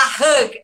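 "hug" with the U opened towards E. Shown as a demonstration. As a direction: say "hug" with an E-like vowel. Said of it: "E o U também".

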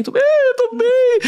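high, drawn-out comic wail; mock crying. Storyteller mimics herself insisting she was fine, mock crying. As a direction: insist through a hammed-up, laughing sob. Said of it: "E chorava, chorava, chorava do olho".

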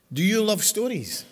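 loud, rousing question to the crowd; big cheery call to the congregation. Real, not acted. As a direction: call it out to wake the room up. Calling out to the congregation.

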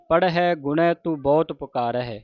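rest after ਪੁਕਾਰ ਹੈ; pause after phrase. Shown as a demonstration. Teacher shows the visram, resting after ਪੁਕਾਰ ਹੈ. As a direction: run the phrase through to ਪੁਕਾਰ ਹੈ, then pause. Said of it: "ਪੁਕਾਰ ਹੈ ਤੇ ਵਿਸਰਾਮ ਲਾਉਣਾ ਹੈ".

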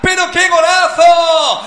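high, slow, shouted disbelief; excited shout. Real, not acted. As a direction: shout it in amazement. Goal celebration.

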